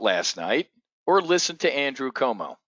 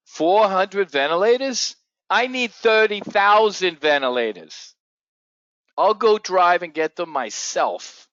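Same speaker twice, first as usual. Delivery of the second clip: slow, louder and higher, in an outraged governor's voice; Cuomo impersonation; 6 semitones higher, 5 dB louder than usual. Retold or imitated. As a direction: plead for the ventilators like a furious governor. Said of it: "I'll do my best Cuomo impersonation".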